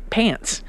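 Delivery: "pants" with a long, dragged A; drawled A. Shown as a demonstration. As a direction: drag out the A in "pants". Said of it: "I'll drag my A".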